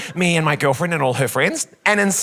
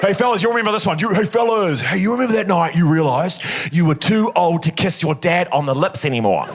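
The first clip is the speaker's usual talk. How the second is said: lad banter voice; 3 semitones higher than usual. Acted. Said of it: "a joke for the boys".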